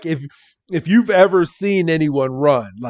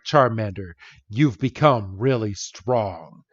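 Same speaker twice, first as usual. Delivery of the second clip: mock-solemn praise; 4 semitones lower, 4 dB quieter than usual. Red praises young Charmander in flashback, solemnly proud.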